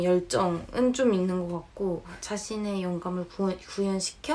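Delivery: 교정기 때문에 꼬이는 발음; 발음이 걸려 더듬으며 읽기; with braces. Real, not acted. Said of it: "왜 이렇게 발음이 어렵냐". (교정기 때문에 새는 발음)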